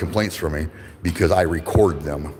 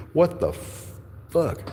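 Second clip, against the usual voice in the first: incredulous what the fuck; 10 semitones higher, 3 dB quieter, much slower than usual. Real, not acted. Outraged at police refusing reports.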